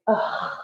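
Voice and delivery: soft, retold groan; resigned groan. Reacting to the state shutdown, resigned groan. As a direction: let out a low-key exasperated ugh.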